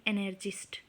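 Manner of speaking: breathy whisper of एनार्चिस्ट; whispered word. Acted. Teacher to students, whispering the word after spelling it. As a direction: softly whisper the answer.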